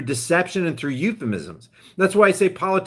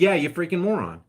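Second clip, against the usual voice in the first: mock insult, repeated. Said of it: "He literally said".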